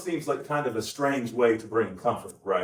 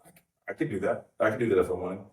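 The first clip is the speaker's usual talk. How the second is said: casual boast; 6 semitones lower, faster than usual. Retold or imitated. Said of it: "the idea being like".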